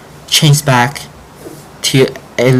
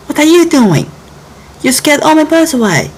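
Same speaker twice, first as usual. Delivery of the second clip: furious yell. Acted. Girl yelling at frog who scared her birds, furious high voice. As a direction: yell back at the bully in fury. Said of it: "Jelly yelled back, furious".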